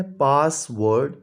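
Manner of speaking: पासवर्ड said slowly, split into its two syllables; teacher stretches पासवर्ड out to show its syllables; syllables spelled out. Shown as a demonstration. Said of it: "two syllable word है". (पासवर्ड को धीरे धीरे दो हिस्सों में बोलें)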